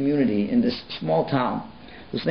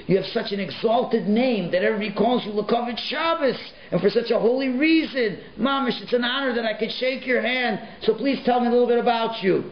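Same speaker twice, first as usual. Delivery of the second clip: moved rebbe; 9 semitones higher than usual. Retold or imitated.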